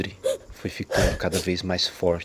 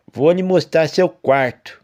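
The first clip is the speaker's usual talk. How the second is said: calm farmer; 8 semitones higher, 6 dB louder, slower than usual. A narrator's reading. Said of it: "O tom do seu altino era tranquilo".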